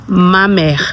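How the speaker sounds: "ma mère" as "mah mair"; French pronunciation. Shown as a demonstration. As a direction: demonstrate "ma mère" for learners. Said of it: "how do you say mother in a French word".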